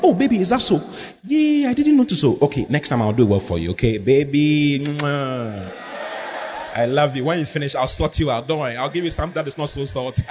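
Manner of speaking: mock-sweet soothing tone to a husband; sweet gentle reply. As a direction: coo it lightly, all honey. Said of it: "Instead of responding positive".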